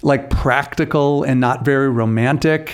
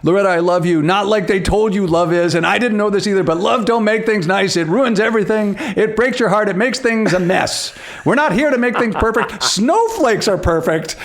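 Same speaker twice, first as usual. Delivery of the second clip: building, higher impassioned declaration; reenacting Ronnie's speech; 5 semitones higher than usual. Quoting Ronnie's love speech to a co-host, building hammed-up passion. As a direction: grow more fervent line by line, mock romantic. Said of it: "hearing you, you reenact it".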